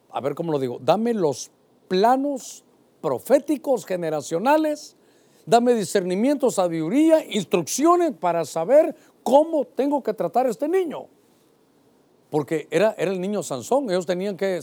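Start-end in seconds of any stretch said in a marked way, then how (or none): 0.8-11.1 eager pleading. Acted. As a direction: ask God with growing urgency. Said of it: "lo que él quería es".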